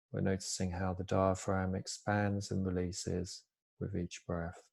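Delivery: calm, unhurried body-scan guidance with long pauses; soft-spoken mindfulness teacher, easing each phrase down; guided meditation. Real, not acted. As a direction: gently guide listeners into stillness, pausing between phrases.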